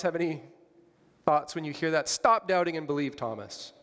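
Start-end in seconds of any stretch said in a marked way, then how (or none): 2.1-3.7 scold, then let the name fall; rebuke. Shown as a demonstration. Preacher voicing Jesus rebuking Thomas, mild scold. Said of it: "It sounds like a rebuke".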